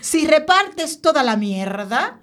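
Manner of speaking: slow, savouring every word; with relish. Acted. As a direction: relish the line slowly. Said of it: "esto hay que decirlo así con sabor".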